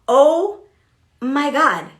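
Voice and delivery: slow, emphatic dawning shock; sudden realization. Retold or imitated. Leader realizing she was bothered with herself, sudden realization. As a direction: let it land, word by word. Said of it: "like, realize it".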